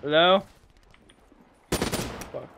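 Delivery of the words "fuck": breathy whispered swear; whispered curse. Real, not acted. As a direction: hiss it under your breath. Muttered after a setback.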